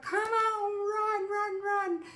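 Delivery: high, loud run chant; excited cheering. Retold or imitated. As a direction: drive it on with each run. Cheering lizard.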